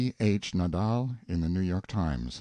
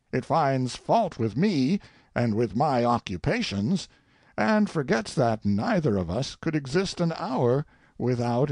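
theatrical soliloquy with swings in pitch; lightly acted monarch talking to himself; musing king; 3 semitones higher than usual. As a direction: savour and mock the verse like a critic. King's soliloquy continues.

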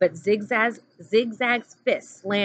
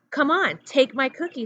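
Zigzag pushing cookie; 7 semitones higher than usual. A narrator's reading.

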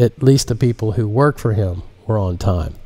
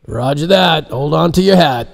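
pilot voice; 7 semitones higher, 4 dB louder than usual. Acted. Pilot speaks at takeoff.

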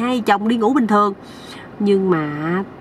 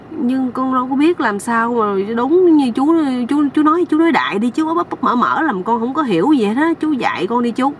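lightly acted plea, pitched up; pleading; 4 semitones higher than usual. Young man asking the uncle to teach him, pleading. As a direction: beg for an explanation, mildly helpless.

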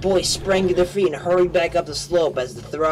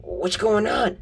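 shouted question; 7 semitones higher, slower than usual. A narrator's reading. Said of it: "the man shouted".

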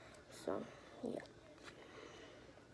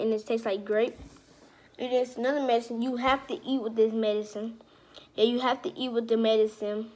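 talking around a wad of gum; words chewed through gum; chewing gum. Real, not acted. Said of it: "y'all got gum in my mouth".

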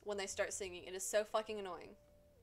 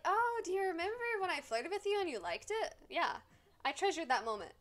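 mock flirting Sim; 5 semitones higher than usual. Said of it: "Be like".

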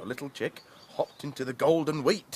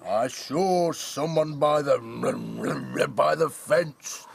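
slow heavy bull voice; a lightly voiced slow bull; snorting bull; 4 dB louder, slower than usual. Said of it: "snorted the bull".

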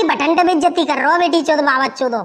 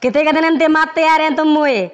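Ravan; 3 semitones lower than usual. Acted. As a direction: proclaim it like a stage villain. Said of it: "Ravan हूँ मैं".

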